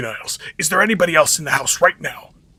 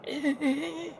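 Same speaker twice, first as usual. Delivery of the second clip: a high, overdone fake sob of grief; too sad; 12 semitones higher, 7 dB quieter than usual. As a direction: ham up the mourning until it tips into laughing. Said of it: "Too sad".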